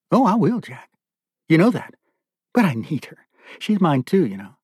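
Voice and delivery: high-pitched, taunting captor; possessive captor. Acted. Captor claiming the prisoner's daughter, possessive.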